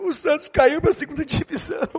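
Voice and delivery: mock the son crying over Santos; imitating a sobbing child. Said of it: "ele estava em prantos".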